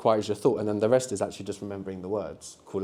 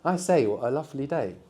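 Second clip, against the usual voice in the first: mock posh Englishman; 4 dB quieter than usual. Shown as a demonstration. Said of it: "You can say".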